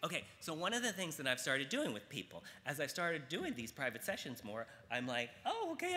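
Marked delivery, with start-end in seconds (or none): 5.4-6.0 retold realization.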